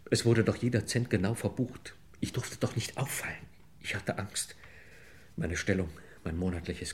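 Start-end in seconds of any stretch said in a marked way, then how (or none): 2.2-4.6 hushed, scared whisper of a guilty man; frightened half-whisper confession; fearful whisper. Acted. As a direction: whisper it as if afraid of being overheard.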